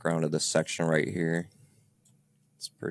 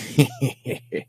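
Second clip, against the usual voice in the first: mock villain cackle, higher; cartoon villain laugh; 7 semitones higher than usual. Imitating the recorded laugh for friends, a mock villain cackle. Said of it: "almost like the old cartoon villain curling his mustache".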